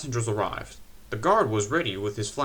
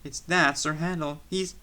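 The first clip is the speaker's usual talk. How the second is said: sheepish coaches; 7 semitones higher than usual. A narrator's reading. Coaches make excuses.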